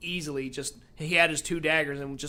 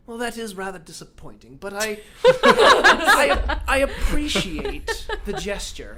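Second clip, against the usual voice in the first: villain voice; 4 semitones higher, 8 dB louder, slower than usual. Retold or imitated. Villain voice, laughing.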